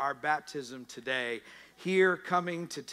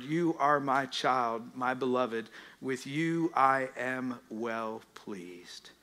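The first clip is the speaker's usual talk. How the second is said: slow, soft, lower; tender blessing; 3 semitones lower, 3 dB quieter, slower than usual. Acted. Pastor blessing the listeners, slow and soft. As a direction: speak it gently as a blessing. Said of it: "repeats beloved words".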